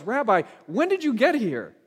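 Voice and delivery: mild retold frustration; frustrated. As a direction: let the crowd's frustration leak into it. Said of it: "their frustration comes out maybe more than they realize".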